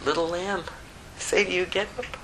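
soft, quick loving call; tender command. Acted. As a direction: coax a sleeping child awake. Jesus raises the girl.

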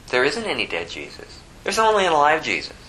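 usual speaking voice

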